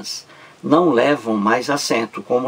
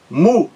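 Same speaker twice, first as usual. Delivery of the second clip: "músicas" em três sílabas isoladas, MÚ bem mais agudo; ênfase na primeira sílaba; 6 semitones higher, 4 dB louder, faster than usual. Shown as a demonstration. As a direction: destaque o MÚ de "músicas" e faça pausa entre mú, zi, cas. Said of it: "A sílaba mais forte é a primeira". ("músicas" escandido, com a primeira sílaba forte)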